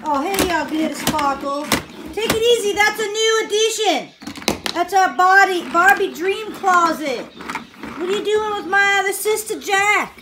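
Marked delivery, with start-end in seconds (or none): 2.1-10.2 a higher, louder playful toy voice; lightly voiced sassy pony. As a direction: play the pony, scolding a little. Adult voices a pony character.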